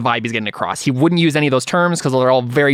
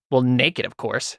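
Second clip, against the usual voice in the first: disdainful sniff; 3 dB quieter, slower than usual. Acted. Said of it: "sniffs in disdain and says".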